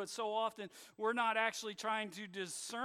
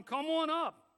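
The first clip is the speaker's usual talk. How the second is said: mocking; 3 dB louder than usual. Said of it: "They mock 'em".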